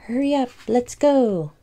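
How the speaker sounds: urgent character voice. A narrator's reading. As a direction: rush them along. Urging friends onward.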